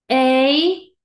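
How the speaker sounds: loud, stretched "Ey"; long A sound. Shown as a demonstration. Teacher drilling long against short, long loud "Ey". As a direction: hold "Ey" long and loud, rising. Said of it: "¿Cuál era el sonido largo?".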